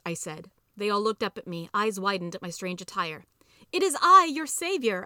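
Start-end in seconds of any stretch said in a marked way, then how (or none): 3.7-5.0 grand high-pitched heroic proclamation; theatrical saviour's cry, loud at the start; yelled. A narrator's reading. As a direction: announce yourself loudly as the rescuer, pitched way up. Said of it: "I yelled".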